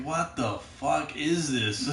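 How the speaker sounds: mock bafflement. Reacting to watching old cartoons now, slow bafflement. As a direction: draw it out quietly, as if bewildered.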